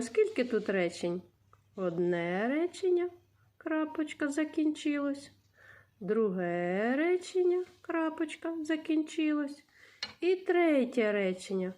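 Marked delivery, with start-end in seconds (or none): 1.8-5.3 teacher counting sentences for pupils; counting sentences aloud. Shown as a demonstration. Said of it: "teacher counts sentences slowly". 6.0-9.6 teacher counting sentences for pupils; counting sentences aloud. Shown as a demonstration. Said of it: "teacher counts sentences slowly".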